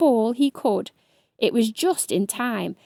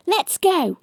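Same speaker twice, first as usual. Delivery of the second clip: urgent; 8 semitones higher, 3 dB louder than usual. A narrator's reading. Urgent order.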